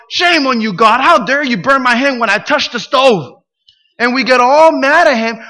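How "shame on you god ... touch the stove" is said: mock indignant scolding. Congregants scolding God, mock quote.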